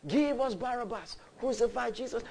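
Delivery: restrained version of a mob's demand; crowd crying out. Acted. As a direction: imitate a crowd calling out, without shouting. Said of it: "they cried".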